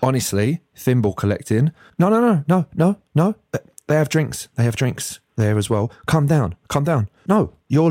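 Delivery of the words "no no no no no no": emphatic refusal. Real, not acted.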